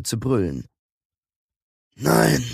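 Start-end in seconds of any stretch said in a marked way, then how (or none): 1.9-2.4 a firm, slightly raised no; firm refusal. A narrator's reading. Ylia answers a question in another language, firm refusal. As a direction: turn the question down decisively. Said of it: "beschied Ylia".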